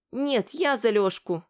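put-on slow, high, indignant child; a little girl protesting. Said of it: "возмутилась Машка".

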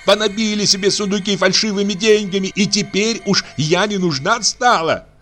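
high, tearful angry tirade; furious crying rant. Acted. Aksinya shouting at the old man through tears, furious. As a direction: scream her grievance at the family. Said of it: "продолжала Аксинья кричать".

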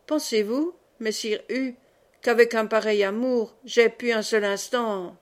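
mock-earnest, deeply felt tone; heartfelt plea. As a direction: plead as if moved to the core. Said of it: "j'ajoute d'un ton pénétré". (ton pénétré, un peu théâtral)

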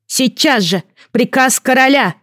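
put-on stamp the order in a child's voice; boy king commanding. A narrator's reading.

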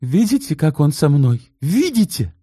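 high, tearful complaint; tearful plea. A narrator's reading. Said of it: "Таисия расплакалась". (плаксиво)

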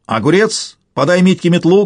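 high, urgent order; bossy exclaimed command. A narrator's reading. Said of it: "командовал таракан".

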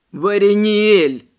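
loud, slow sobbing cry of his name; bursting into sobs. Acted. Forgotten servant repeats his name to his mistress, sobbing loudly. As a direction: wail your own name, hurt she forgot you. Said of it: "разрыдавшись, повторил".

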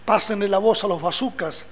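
declaiming a poem. Acted. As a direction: declaim it like a fiery stage poet. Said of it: "que ahora voy a declamar yo".

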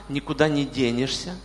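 ordinary delivery

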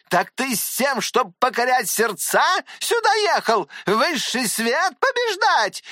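outraged aunt, voice pitched high; scolding old aunt. Acted. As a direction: lash out at the boy as a furious aunt. Tatyana Pavlovna scolds the hero.

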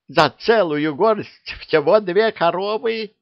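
high, slow indignant cry; outraged. Acted. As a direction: wail it in disbelief at the bad deal. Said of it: "возмутилась яга".

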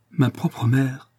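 slow, savouring each word; fond and tender. Acted. Daughter savouring the thought of her mother, slowly and tenderly. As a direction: linger on it like a treasured thought. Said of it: "comme se plaisant à la pensée de leur parenté".

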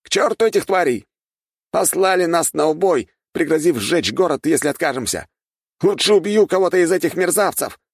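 high loud bitter outburst; a betrayed soldier cursing his commanders; furious soldier. A narrator's reading. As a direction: spit out his rage at the masters. Soldier rages at his masters.

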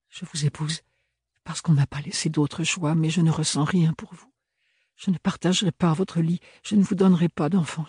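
rising as she forces the words out; Ophélie qui se confie. A narrator's reading. (de plus en plus aigu, la voix qui monte)

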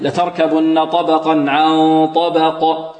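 slow recitation ending in a clear echoing bounce on the ق of طبق; قلقلة بينة. Shown as a demonstration. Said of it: "القلقلة أبين". (تلاوة بطيئة بقلقلة واضحة في قاف طبق)

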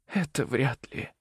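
high, slow, fragile woman's plea; a dying mother begging for her children; dying woman, pleading. A narrator's reading. Celeste pleading with Leo, high and slow.

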